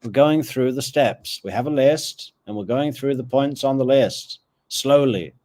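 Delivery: lightly acted unhurried official, reining someone in; mildly mocking, deliberate local drawing out the instructions; sleepy small-town locals. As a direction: put a hotshot in their place, step by step. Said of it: "all sleepy Tallahassee people are just like".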